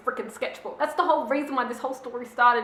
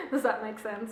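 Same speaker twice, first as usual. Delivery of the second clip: laughing; 7 dB quieter than usual. Real, not acted. Laughs at own confusion.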